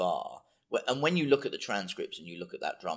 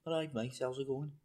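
attempted Geordie; 2 semitones higher, 10 dB quieter than usual.

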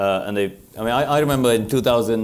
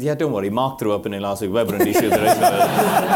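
amused reassurance, laughter creeping in; retelling a boss's amused response; retold laughing reply; 4 dB louder than usual. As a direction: brush it off with a growing laugh. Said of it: "sort of laughing".

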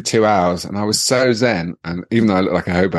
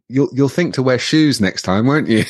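higher, gently scolding receptionist voice; imitated chiding receptionist; 5 semitones higher than usual. A and E woman to barefoot dancer, gently chiding. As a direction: chide the patient like a child, pitched up. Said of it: "And she said".

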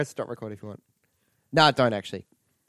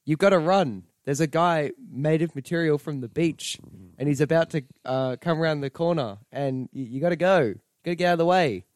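high, loud urgent warning; 4 semitones higher, 5 dB louder than usual. Retold or imitated. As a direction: shout a hurried warning. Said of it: "and he was like".

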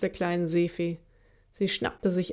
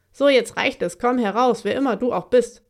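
loud, commanding call into the dark; sharp raised summons; calling out sharply; 4 semitones higher, 5 dB louder than usual. Acted. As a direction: demand the hider show himself. Malvine calls out to hidden attacker.

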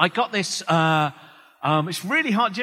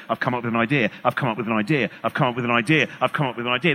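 lightly voiced hack writer, lower and repetitive; typewriter hammerer; 3 semitones lower, faster than usual. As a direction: chant it like someone hammering away at typewriter keys. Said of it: "someone on an old Remington typewriter just hammering away".

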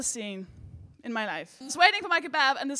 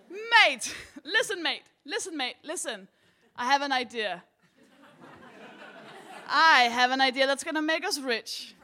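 put-on drunk teenage boy. Drunk teen pitching a kebab idea to the counter man, lightly voiced. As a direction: play the cocky drunk kid pitching his big idea. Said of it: "drunk in the way you're drunk when you're a teenager".

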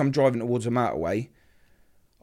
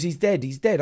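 higher, louder, relaying her panic; retold distraught cry; 6 semitones higher, 5 dB louder than usual. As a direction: imitate a screamed phone call, restrained. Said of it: "She's screaming down the phone, crying, screaming".

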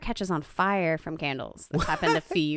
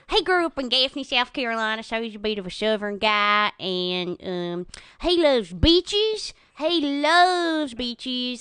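dog Cokie's voice; 3 semitones higher than usual. Acted. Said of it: "Cokie kinda talks like this".

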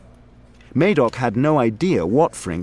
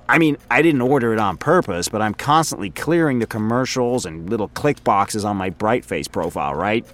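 a rambling, self-amused office guy; chatty coworker voice, in a different timbre from the narrator; Frink, chatty coworker. Acted. Frink voice again.

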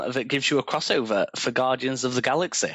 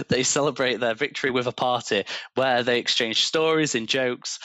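space opera narrator. A narrator's reading. Reads AI story aloud.

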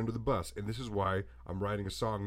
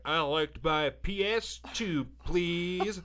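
put-on higher, eager little-boy voice; imitating little kid; 7 semitones higher, 4 dB louder, slower than usual. Young boy at the counter asking for a PS2, higher eager kid voice. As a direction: play your small excited self asking politely. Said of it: "And I was like".

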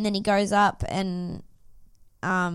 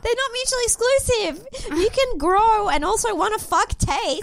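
much higher and louder, mock-outraged correction; emphatic rebuttal; 12 semitones higher, 5 dB louder than usual. Real, not acted. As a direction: set her straight, pitch way up. Rebutting co-host about Ali.

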